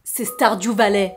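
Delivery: slow, held-back naming of Stardew Valley; slow reveal. Real, not acted. Vlogger revealing which game hooked her, slow reveal. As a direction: reveal the title unhurriedly.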